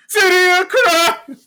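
high, slow dramatic announcer. Acted. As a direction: boom it like a movie trailer. Shouted catchphrase.

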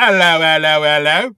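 loud Cockney bobby hello hello. Shown as a demonstration. Answering the co-host's accent challenge, loud Cockney. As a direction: bellow it like a London constable.

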